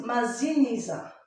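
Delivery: "Mazinisa" said slowly with a clear buzzing z; z sound between vowels. Shown as a demonstration. Teacher sounds out the name so the child hears the z. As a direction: lean on the z in "Mazinisa". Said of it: "tu as écrit Maz".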